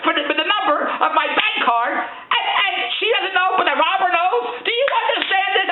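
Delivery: exasperated laughing rant; laughing in disbelief. Real, not acted. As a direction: laugh at how absurd it is. Incredulous rant, laughing at absurdity.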